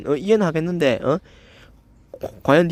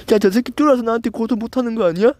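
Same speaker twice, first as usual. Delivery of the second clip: mocking the commenter; 6 semitones higher than usual. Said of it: "이러는데".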